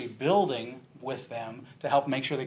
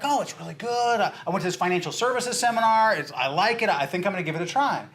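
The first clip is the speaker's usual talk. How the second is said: higher, eager telling of the seminar; keen and upbeat, pitched up; excited; 4 semitones higher than usual. Retold or imitated. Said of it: "He's all excited".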